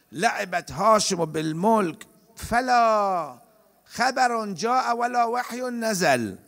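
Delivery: slow, drawn-out recital of the verse; slow recitation. Retold or imitated. Preacher recites Yazid's mocking poem, slow and drawn out.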